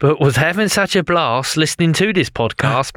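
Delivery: put-on light Australian accent. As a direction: recite it in a hint of Aussie. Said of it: "Why are you doing Australian accent".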